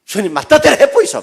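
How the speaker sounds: put-on loud, high Gyeongsang-accented prayer; 경상도 사투리로 체념하듯 외치는 기도; Gyeongsang dialect resignation. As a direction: give up and hand it over, Busan style. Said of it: "힘 빠지면 뭡니까".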